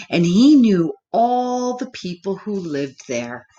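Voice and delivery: lively storybook reading voice; reading to children. Acted. Teacher reading a picture book to children. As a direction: read it aloud to a young class.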